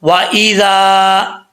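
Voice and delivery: slow chanted recitation; Quran recitation. Shown as a demonstration. Teacher leads students reciting along, slow and chanted. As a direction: recite it slowly so students follow. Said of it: "आपने मेरे साथ साथ पढ़ना है".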